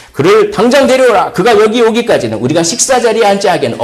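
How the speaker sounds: high, loud, fast royal command; commanding call. Acted. Samuel orders David brought in, loud command. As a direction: bark out the order to fetch the boy.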